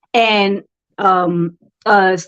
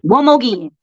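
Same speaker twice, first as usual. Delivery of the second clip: light country accent on the words; country-style "One more again". Shown as a demonstration. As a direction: say it with a country twang. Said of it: "Country, as country as hell".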